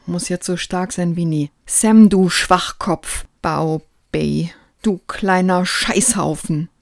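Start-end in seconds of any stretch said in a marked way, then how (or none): 1.6-6.7 tender cursing. Acted. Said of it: "zärtliche Flüche".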